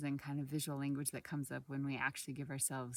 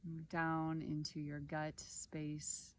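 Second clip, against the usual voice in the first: calm meditation guide, long pauses between short phrases; guided body scan. Acted. Guide leading listeners through a body scan, calm and unhurried. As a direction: guide gently through the body, leaving space after each phrase.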